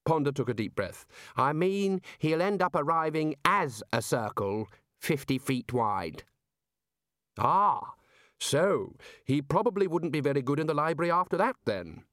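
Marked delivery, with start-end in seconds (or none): 1.3-6.2 lightly voiced patient explainer, a little higher; a hint of an earnest underling; Ponder. 7.4-12.1 higher, musing figure of authority; a hint of a senior wizard catching on; lightly voiced pondering boss.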